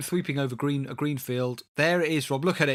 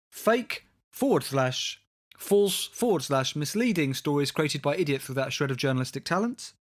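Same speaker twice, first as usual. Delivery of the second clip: episode title announcement. Acted. Host proposing the comment as episode title, grandly announced. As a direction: announce it grandly, spacing out each part. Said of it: "surely there's the episode title".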